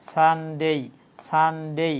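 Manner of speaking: সানডে drawn out as "saan-dey"; correct Sunday. Shown as a demonstration. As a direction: hold the N in সানডে, then a long "dey". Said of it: "আমি আবার repeat করে দেখেন". (সানডে শুদ্ধ উচ্চারণে, "সানডেই")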